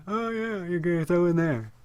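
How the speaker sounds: high, excited cartoon reaction; mock excited anime voice. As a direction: gush like an anime kid. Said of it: "I'm like".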